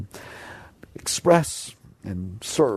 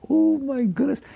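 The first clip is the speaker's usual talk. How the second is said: amused exclamation; 14 semitones higher, slower than usual. Real, not acted. Exclaims at the chattering mind.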